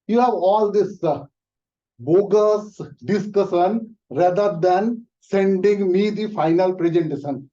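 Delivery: high, loud, impatient boss cutting him off. Acted. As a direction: shut him down and demand the work, loudly. Boss scolds employee.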